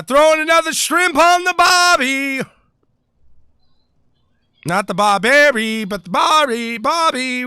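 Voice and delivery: hammed-up Aussie accent, called out high; terrible Australian accent. Commentator teasing his Australian viewers, bad Australian accent. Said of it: "I do a terrible Australian accent".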